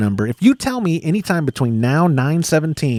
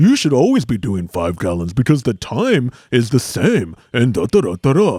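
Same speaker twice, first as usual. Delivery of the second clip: put-on scolding voice, pitched lower; 4 semitones lower than usual. Imitating an absent co-host answering a listener question: imitating Todd. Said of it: "let me imitate Todd".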